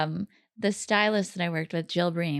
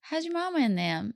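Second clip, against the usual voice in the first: higher, tentative Southern echo; imitated Southern phrase; 5 semitones higher than usual. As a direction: try out the Southern greeting.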